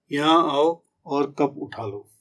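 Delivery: slow, even instruction. Shown as a demonstration. Teacher showing a plain instruction, slow and even. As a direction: say it slowly and evenly. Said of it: "ऐसे ही".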